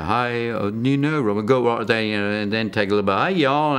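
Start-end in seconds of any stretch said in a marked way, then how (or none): 0.0-2.0 lightly put-on English accent. Shown as a demonstration. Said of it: "a little bit of an English accent". 3.2-3.8 higher-pitched mock southern US accent. Shown as a demonstration. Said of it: "southern accent".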